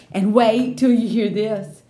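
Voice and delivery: slow, drawn-out build-up; lightly voiced bossy girl; Lucille teasing. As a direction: hold them in suspense, girlish.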